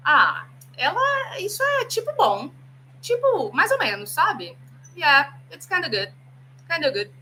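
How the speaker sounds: casual native speaker. Shown as a demonstration. Teacher acting a native saying kinda good. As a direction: play a laid-back native speaker shrugging. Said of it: "se eu quiser falar assim".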